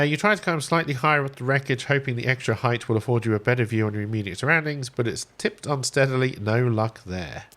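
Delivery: measured read-aloud of game text; story narration. A narrator's reading. Streamer reading the stranded survivor's tale to viewers, narrating.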